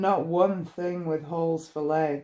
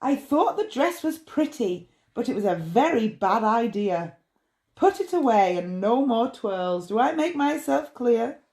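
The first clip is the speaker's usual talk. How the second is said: scolding mother; 3 semitones higher than usual. Acted. Mum scolding child.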